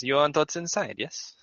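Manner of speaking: a small creature murmuring its thanks; kobold voice. Acted. Morzar asks about safe.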